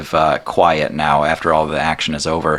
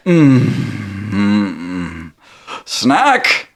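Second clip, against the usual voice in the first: genie savouring; 2 semitones higher, much slower than usual. Acted. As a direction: savour it, then call out.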